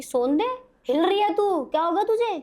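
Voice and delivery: put-on older sister asking her trembling little sister what's wrong, alarmed. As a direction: voice the scared sister shaking her awake. Alarmed sister shakes her awake.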